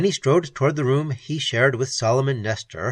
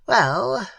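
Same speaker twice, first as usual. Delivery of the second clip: thoughtful; 9 semitones higher than usual. Acted. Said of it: "said old Solomon thoughtfully".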